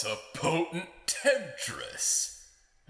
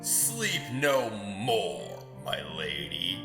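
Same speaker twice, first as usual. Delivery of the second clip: ominous warning; 3 semitones lower than usual. Acted.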